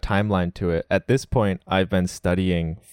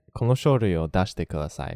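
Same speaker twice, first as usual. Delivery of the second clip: fast casual Japanese; faster than usual. Shown as a demonstration. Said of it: "completely clear".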